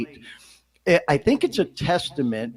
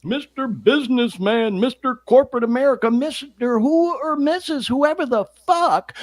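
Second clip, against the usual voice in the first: mock worried; 6 semitones higher than usual. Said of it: "you're so fucking worried about the stigma".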